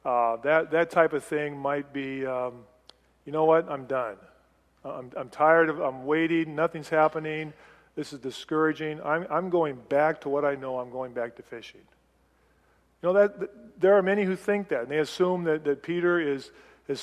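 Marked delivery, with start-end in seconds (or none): 3.2-11.8 discouraged, giving up. Retold or imitated. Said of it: "that tone of voice".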